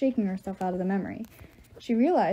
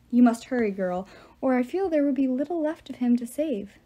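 lightly voiced villainous giant; measured, ominous threat; menacing giant. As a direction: taunt with mock concern. Giant villain taunts captive's daughter.

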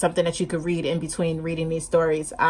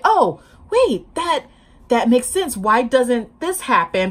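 excited aha moment, replayed; sudden realization; 5 semitones higher, slower than usual. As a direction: act out an idea popping into your head. Acts out sudden story idea.

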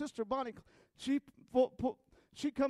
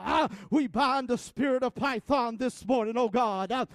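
fervent prayer. Acted. Opening prayer at full force.

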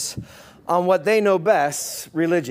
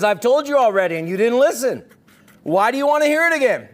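sarcastic; 4 semitones higher, 3 dB louder, faster than usual. Retold or imitated. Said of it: "What a sarcastic and snarky way".

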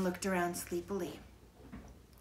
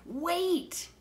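sharp high urgent stop; urgent call; 11 semitones higher than usual. A narrator's reading. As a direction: stop her before she stands. Jack stops Annie urgently.

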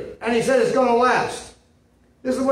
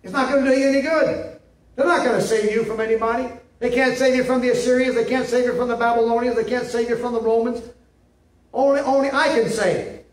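louder, fast preaching as God; God's voice preached; 5 semitones higher, 3 dB louder than usual. Acted. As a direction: thunder God's warning to Israel. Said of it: "He said".

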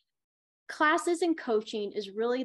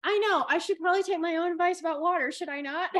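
laughing at herself; 7 semitones higher, 4 dB louder than usual. Real, not acted. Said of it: "laughs at her own irony".

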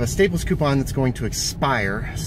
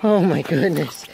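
slower, drawn-out doting; 7 semitones higher, 8 dB louder, slower than usual. Real, not acted. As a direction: draw it out lovingly. Repeat to dogs.

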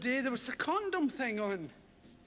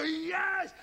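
mock passion; 5 semitones higher than usual. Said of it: "They never go".

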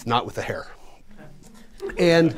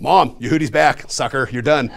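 gloating; 7 dB louder than usual. Retold or imitated. Gloating call to mom.

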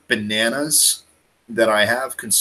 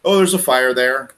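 mock casual reaction; 7 semitones higher, 5 dB louder than usual. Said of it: "Canadians were like".

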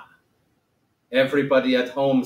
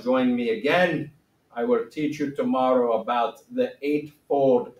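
put-on Gautama accent. Teacher playing the great Gautama for class, lightly accented. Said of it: "I don't have to be G, the great Gautama anymore".

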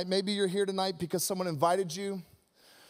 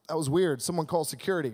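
lower, deadpan dismissive dad; Walter Hobbs; 5 semitones lower than usual. Retold or imitated. Walter Hobbs rejecting Buddy, lower and dismissive. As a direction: brush him off with a low voice. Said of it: "He's like".

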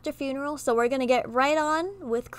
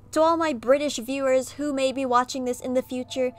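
put-on butchered British accent. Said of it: "if I'm butchering your accent".

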